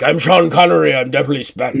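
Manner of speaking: hammed-up Scottish accent, half laughing; Sean Connery. Joking with a player about the NPC's accent, mock Scottish accent. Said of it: "make him use the accent".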